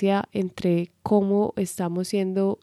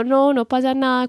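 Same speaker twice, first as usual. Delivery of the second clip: higher-pitched acted denial of being upset; pretended calm; 6 semitones higher than usual. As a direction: brush it off while about to burst inside. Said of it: "cuando en realidad por dentro estoy que estallo".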